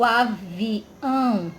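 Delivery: "avião" broken into a, vi, ão; split into syllables. Shown as a demonstration. Teacher separating syllables for pupils, "avião" split in three. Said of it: "Quando a gente separa".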